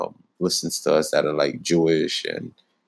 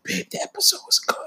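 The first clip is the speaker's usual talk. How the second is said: imitating partner; 12 semitones higher, 3 dB quieter than usual.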